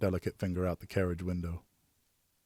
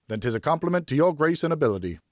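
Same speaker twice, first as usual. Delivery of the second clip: put-on higher, lighter young lady's voice; Geneviève's voice; 7 semitones higher, 3 dB louder than usual. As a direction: speak as a graceful young noblewoman.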